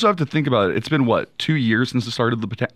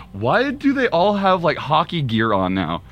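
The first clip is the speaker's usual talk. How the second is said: retold question; 5 semitones higher, slower than usual. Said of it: "And I asked you".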